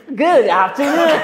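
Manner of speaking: overdone greeting. Acted. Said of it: "Over naman".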